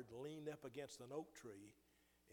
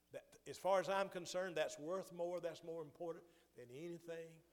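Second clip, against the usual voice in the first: rising preaching fervor; 4 semitones higher, 5 dB louder than usual. Real, not acted. Preacher drives home the point.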